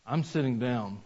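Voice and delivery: put-on little girl defying her dad under her breath, softly; muttered under breath. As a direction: sulk it quietly to yourself. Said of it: "he heard her whisper under her breath".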